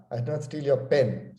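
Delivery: "pen" said as the key word; stress on pen. Shown as a demonstration. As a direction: lean on "pen" to hint it was something else. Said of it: "So maybe I stole something else".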